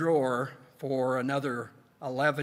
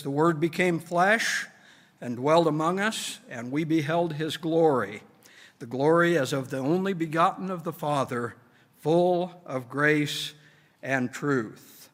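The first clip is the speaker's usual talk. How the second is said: scripture reading. Acted. Reads John 1:14 aloud.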